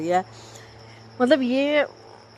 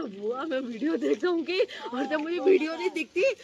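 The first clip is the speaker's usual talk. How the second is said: put-on a light, higher quote of a small boy; Aryan's child voice; 8 semitones higher than usual. Aunt retelling what her nephew answered, lightly in a higher child voice. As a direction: lift the voice a little to mimic the little nephew. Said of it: "बोल रहा".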